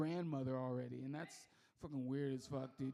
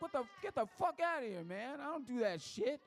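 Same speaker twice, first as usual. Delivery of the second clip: mock outrage; 5 semitones higher than usual. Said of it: "I was like".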